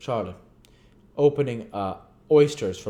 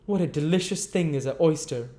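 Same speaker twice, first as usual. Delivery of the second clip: tipsy Noah; 8 semitones higher, 4 dB louder than usual. Acted. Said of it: "remarked Mister Claypool".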